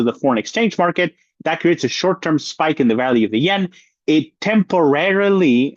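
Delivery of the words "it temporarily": temporarily drawn out slowly with weight; stress on temporarily. Real, not acted. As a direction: lean on temporarily, slow it down. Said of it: "and I emphasize this word".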